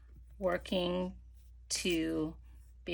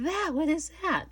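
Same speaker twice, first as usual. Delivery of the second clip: high, louder puzzled question; puzzled guest; 10 semitones higher, 5 dB louder than usual. Retold or imitated. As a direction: ask it like a baffled visitor. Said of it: "they're going".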